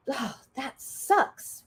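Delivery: slow, drawn-out, soft sympathy; sympathetic commiseration. Acted. Friend validating a terrible day, slow commiseration. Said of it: "What someone has to say is".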